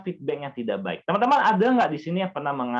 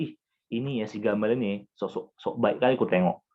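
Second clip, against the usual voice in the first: put-on gossiping Batak accent; 6 semitones lower than usual. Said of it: "kalau bahasaku Batak kali ya".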